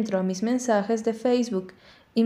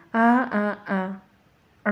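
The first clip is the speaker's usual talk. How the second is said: sung ahs; much slower than usual. Acted. Girl serenading her dog, sung ahs fading away. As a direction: belt a few ahs then let them drop. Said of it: "para cantar".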